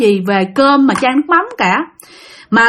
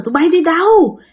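scolding grandma; 3 semitones higher than usual. Acted. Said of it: "chửi quá trời chửi luôn".

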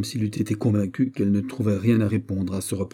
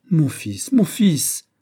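urgent cry climbing higher and louder; exclaimed; 7 semitones higher, 6 dB louder, much slower than usual. Acted. Mother checks her exasperated son, exclaimed. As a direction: cry out in protest, the repeat pitched up. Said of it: "s'écria Anne d'Autriche".

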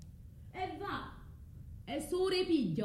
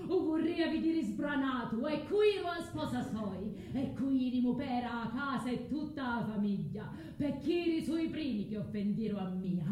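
fiercer curse; 3 semitones higher than usual. Acted. Curse repeated more intensely.

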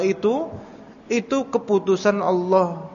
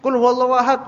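louder, higher "Qul huwallahu ahad" said as a firmer demand; insisting parent; 7 semitones higher, 3 dB louder, faster than usual. Retold or imitated. Parent repeating "Qul huwallahu ahad" to a toddler, firmer and louder.

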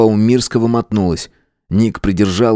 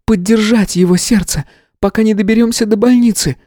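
much higher, sharp explanation; 14 semitones higher than usual. A narrator's reading. Tanya sharply explains to Nick. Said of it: "резко сказала".

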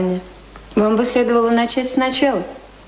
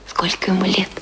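hushed whispered aside; whispering; 3 semitones higher than usual. Acted. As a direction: whisper it behind his back. (шёпот за спиной гостя)

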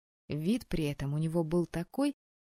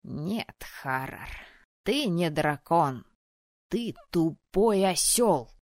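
angry scolding; 4 dB louder, slower than usual. Acted. Anna scolds the dragon.

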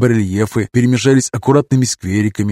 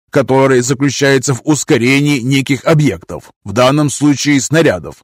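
excited robot nanny; 2 semitones higher than usual. Acted. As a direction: gush over the new toy. Mich raves about gauss gun.

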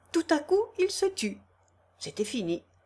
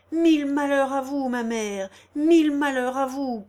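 loud, higher repeated curse; cursing; 4 semitones higher, 5 dB louder than usual. Acted. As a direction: hurl the curse at the mother. Daughter curses mother in sermon.

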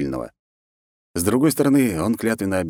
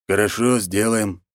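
calm reply; 3 semitones higher, slower than usual. Acted. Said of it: "абсолютно спокойно сказал Потапов".

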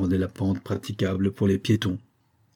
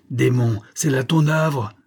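exclaiming; 4 semitones higher, slower than usual. Acted. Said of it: "s'écria le capitaine".

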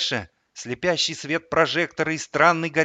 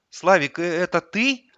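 hesitant question, raised pitch; uncertain; 5 semitones higher, 4 dB louder than usual. A narrator's reading. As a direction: ask haltingly, doubting who is there. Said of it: "неуверенно спросила она". (неуверенно)

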